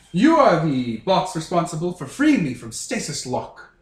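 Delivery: lightly put-on snooty British accent; a North American badly faking a haughty Brit. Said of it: "doing a terrible impression of a British person".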